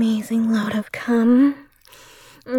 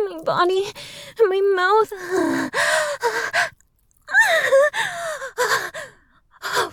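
higher, breathless, excited cries; climactic excitement; 8 semitones higher than usual. Acted. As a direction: let the voice climb with excitement. Roleplay climax, rising excitement.

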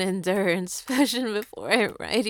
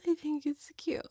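whispering; 5 semitones higher, 7 dB quieter than usual. Real, not acted. Soft aside after teasing.

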